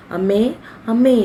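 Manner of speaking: acted cry of alarm; alarmed calling. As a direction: call for mother with rising urgency. Daughter calls out to collapsed mother.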